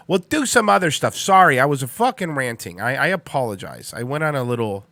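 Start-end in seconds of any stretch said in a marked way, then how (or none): 0.1-1.2 higher, back at full volume; raised restart. Real, not acted. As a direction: pick it up higher for the audience. Same words repeated, brought back up.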